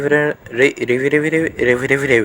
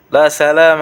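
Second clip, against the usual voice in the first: mock farewell; 4 semitones higher, 6 dB louder than usual. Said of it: "انا بقى سلام".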